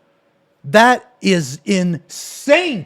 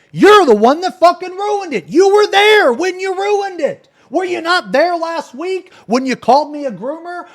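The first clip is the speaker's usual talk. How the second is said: high, raised voice in real indignation; incensed accusation; 11 semitones higher than usual. Real, not acted. Streamer confronts rival who blames others for ruining it, incensed. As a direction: pile up accusations, voice pitched way up. Angry rebuttal to rival's video.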